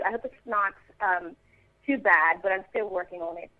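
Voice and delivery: modest attempt at British English; British accent. Shown as a demonstration. Actress demonstrates an accent still in progress, British accent. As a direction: stay in a light British accent. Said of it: "that's that one".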